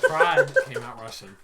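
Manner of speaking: breathless high laugh through words. Real, not acted. Laughing at own story.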